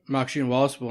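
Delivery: "Maxine Wassable" run together in a slur; slurred name. Real, not acted. Fantasy player naming his matchup, slurring "Maxine Wassable". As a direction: slur the words of "Maxine Wassable" into each other. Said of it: "I slurred that pretty well".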